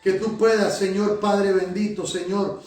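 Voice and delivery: prayer with repeated Señor; fervent prayer. Acted. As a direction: pour it out to God, pleading, line after line. Pastor leads a fervent prayer.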